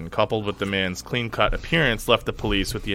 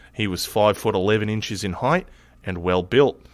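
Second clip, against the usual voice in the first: mild Australian accent. Shown as a demonstration. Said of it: "my shittiest Australian accent".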